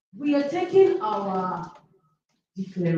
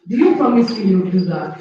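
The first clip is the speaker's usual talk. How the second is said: louder, pushing for an answer; rallying call; 6 dB louder than usual. Real, not acted. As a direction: demand the promise from the whole room. Teacher rallying the students.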